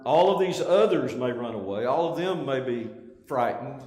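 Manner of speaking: bold and emphatic. Retold or imitated. Peter boasting to Jesus of his courage, boldly. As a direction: set yourself apart from all the others. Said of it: "Peter's statement is so emphatic, it's so bold".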